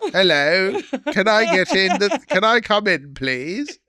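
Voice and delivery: mildly timid, polite request with a laugh; awkward British photographer. Acted. Photographer mocks himself asking at the club door, mildly awkward politeness. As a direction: play up the awkward politeness a little. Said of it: "slightly awkward British photographer".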